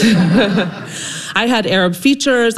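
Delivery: says it through a laugh; amused, chuckling delivery. Real, not acted. Laughing while telling her story.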